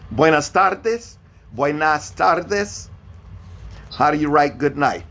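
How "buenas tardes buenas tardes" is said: "Buenas tardes" spoken slowly, each syllable clear; slow Spanish model. Shown as a demonstration. Teacher models good afternoon slowly for the student, slow and clear. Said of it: "how do you write good afternoon".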